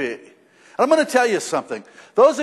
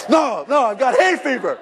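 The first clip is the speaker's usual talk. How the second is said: sheepish laughing excuse, a little higher; laughing denial; 3 semitones higher than usual. Retold or imitated. Preacher caught crying tells his wife, laughing. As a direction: fib through a laugh.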